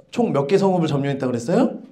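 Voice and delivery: usual speaking voice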